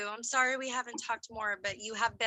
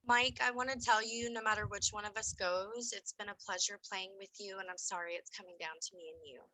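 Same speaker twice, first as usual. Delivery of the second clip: sincere; 6 dB quieter than usual. Real, not acted. Heartfelt goodbye before the revote.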